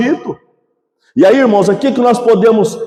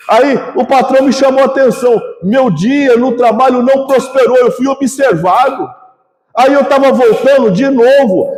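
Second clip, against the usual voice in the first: mock whining complaint; 2 semitones higher than usual. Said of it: "reclamando, murmurando, choramingando".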